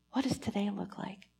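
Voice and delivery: hushed whisper to God; whispered prayer. Real, not acted. Pastor quietly praying to the Lord in a whisper. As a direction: pray it under your breath.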